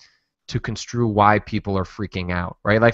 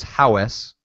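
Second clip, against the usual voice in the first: Minnesotan "howes", vowel drawn out; Minnesotan accent. Shown as a demonstration. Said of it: "this very particular Minnesotan accent".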